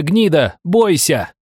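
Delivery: high, spitting insult; raging woman warns her foe, high; furious threat. Acted. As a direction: hurl the insult and warning. Enraged woman threatens narrator.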